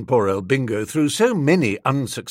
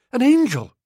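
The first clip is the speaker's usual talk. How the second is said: louder, higher second angel; rapturous repeat; 11 semitones higher, 5 dB louder than usual. Acted. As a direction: gush over the word angel.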